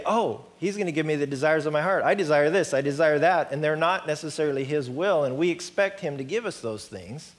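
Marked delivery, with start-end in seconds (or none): 0.0-3.5 mock demanding. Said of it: "so many times we say".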